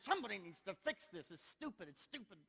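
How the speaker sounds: re-enacted irritation that tails off; retold griping attitude. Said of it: "that was my attitude".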